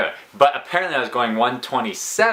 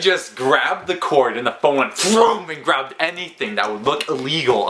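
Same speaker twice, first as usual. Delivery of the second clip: excited retelling; 5 semitones higher, 3 dB louder than usual. Real, not acted. Friend describing Alex hiding the phone, excited and animated. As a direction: paint the frantic grab.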